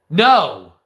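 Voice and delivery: loud, single-word rejection; emphatic acted refusal; firm refusal. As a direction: shut the offer down loudly. Refuses offered drugs in retold scene.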